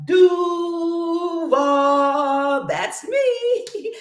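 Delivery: high, loud hometown cheer; excited shout. Real, not acted.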